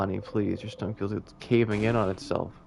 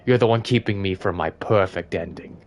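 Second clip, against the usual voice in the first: gloating villain king; 3 semitones lower, 5 dB louder than usual. Acted. The king accuses Siffrin of blocking victory, rising to louder. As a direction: spit the blame at him.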